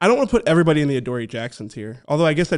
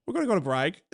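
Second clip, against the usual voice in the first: softer, recovered Birmingham accent; 3 semitones higher, 4 dB quieter, faster than usual. Shown as a demonstration. Co-host redeems his bad accent, quieter Birmingham accent. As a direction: land the Birmingham lilt more gently. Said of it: "That's Birmingham. I got it".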